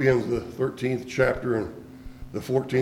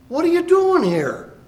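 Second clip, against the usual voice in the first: much higher, loud divine question; God demanding an answer, loud and high; booming voice of God; 4 dB louder than usual. Acted. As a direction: call down like God from above. God questions Elijah in cave.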